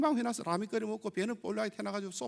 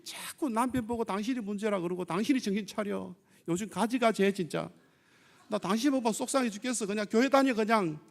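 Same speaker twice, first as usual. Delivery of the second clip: acted nagging wife. Acts out wife scolding her husband.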